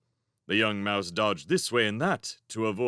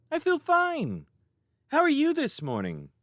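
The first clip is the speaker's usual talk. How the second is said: high mouse maid voice. Acted. Rose answers wryly.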